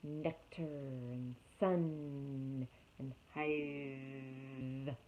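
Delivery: slow, low, soft bee buzz. Acted. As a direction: drag the words out like a buzzing bee. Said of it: "buzz a few simple words".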